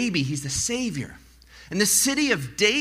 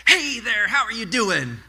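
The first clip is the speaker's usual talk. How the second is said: mock peppy morning-person hello; chirpy morning person; 4 semitones higher than usual. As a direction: greet like a way-too-cheery coworker. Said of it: "a morning person greets you".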